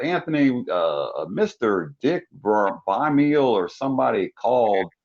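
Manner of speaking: roommate's slow Southern drawl; lightly drawled Southern roommate voice; little Southern drawl. Retold or imitated. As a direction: imitate a mild Southern accent. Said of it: "he had, like, a little Southern drawl too".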